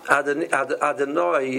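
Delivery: "Adonai" as "ah-de-NOY", middle o reduced; wrong pronunciation. Shown as a demonstration. Rabbi correcting how the Name is said, wrong pronunciation. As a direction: swallow the o in "Adonai" to a weak uh. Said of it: "is not Hashem's name".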